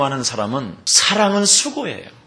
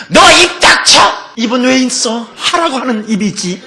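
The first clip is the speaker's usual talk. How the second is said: much higher and louder, cutting her off; furious shout; 8 semitones higher, 6 dB louder than usual. Acted. Husband tells his wife to shut up, shouting.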